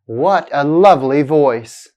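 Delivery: exclamation with "lovely" stressed, "voice" falling; falling intonation. Shown as a demonstration. Teacher models an exclamation for learners, falling intonation. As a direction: stress "lovely" and let "voice" drop. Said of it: "sounds like a fall in the pitch".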